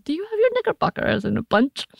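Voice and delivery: high, giggling tease; teasing laugh. Pretend. Teasing her co-host with the new word, laughing high. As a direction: toss the line out laughing.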